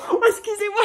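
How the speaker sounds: aigu et fort, entre deux rires; s'extasier en riant devant le colis; cris de joie. Real, not acted. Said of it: "j'ai même pas envie de l'ouvrir". (voix très aiguë, émerveillée, qui rit)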